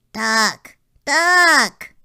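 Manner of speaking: loud rising yell of alarm, high; yelled warning. A narrator's reading. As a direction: shout the warning as loud as you can. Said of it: "yelled Splat".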